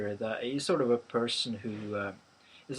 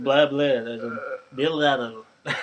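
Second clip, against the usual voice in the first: mock Danish babble; 6 dB louder, faster than usual. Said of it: "it sounds like drunken Norwegians when they speak".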